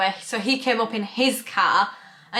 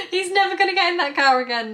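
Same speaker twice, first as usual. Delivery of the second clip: incredulous; 8 semitones higher, faster than usual. Retold or imitated. Incredulous retold thought.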